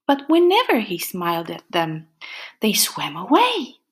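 lively storybook reading with playful whispers; animated picture-book narration; reading to children. A narrator's reading. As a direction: read it like story time for little ones. Reads a picture book aloud.

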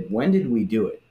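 sincere puzzlement. Retold or imitated. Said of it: "that's the tone to read it in".

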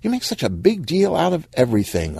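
high-pitched eye-rolling exasperation; exasperated. Acted. Monique chides whining Stan, exasperated. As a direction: huff it high, fed up with the fuss.

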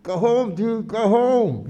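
shouted order. Retold or imitated. Quoting a rioter shouting at cops to go home. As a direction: yell go home at the police. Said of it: "you hear him say".

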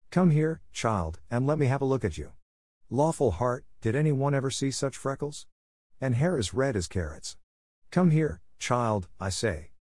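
put-on sharp neighbour summoning the child to look her over; Rachel calling.

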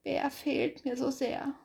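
slow, wistful hare, a touch of sighing; mild sigh. Acted. Hase alone at night misses Bär, slow and wistful. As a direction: ask it slowly, missing a friend. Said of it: "seufzte Hase".

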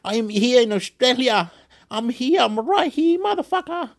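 high-pitched, climbing excited cry; imitated excited yelling. Telling some ghost or something, high excited proclaiming. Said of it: "I'm going".

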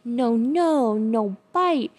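imitating mom telling off the puppy. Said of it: "my mother in particular ... she would go".

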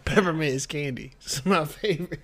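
lightly voiced old person, teasing; mocking old person. Friend mimicking co-host as an old candy lover, lightly mocking. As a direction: tease with a hint of an old person's voice. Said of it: "You sound like an old person".

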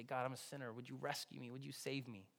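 soft, humble prayer; quiet prayer. Shown as a demonstration. Pastor modelling the salvation prayer for listeners, soft and humble. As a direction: pray it gently, as a sinner asking. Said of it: "That's the prayer of salvation".

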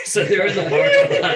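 real high, loud laugh breaking into the words; cracking up while telling it. Real, not acted. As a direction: talk through a burst of laughter.

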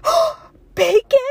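very high, loud, drawn-out mock shock; Mean Girls. Popular girl learns the flavor, hammed-up horror. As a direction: gasp it like a scandalized mean girl. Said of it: "like, Mean Girls or whatever".

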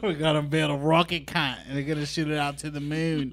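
Elon Musk. Acted. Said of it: "make fun of the way Elon Musk talk".

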